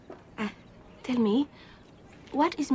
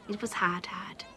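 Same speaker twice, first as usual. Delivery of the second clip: whispered memory. Acted. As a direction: whisper fading out on the second hard. Remembers caring for her father.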